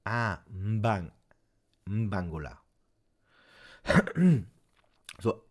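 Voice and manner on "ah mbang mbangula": "mbangula" starting on a hummed m; corrected pronunciation. Shown as a demonstration. Streamer practising after viewers' correction, "mbangula" with hummed m onset. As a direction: run the m straight into b in "mbangula". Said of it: "I pronounce them bad".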